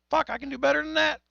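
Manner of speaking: frustrated self-talk. Retold or imitated. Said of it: "And I went".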